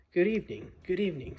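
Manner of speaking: a flustered faun bowing hello; eager fawn. Acted. Fawn greets Lucy, fussy and eager.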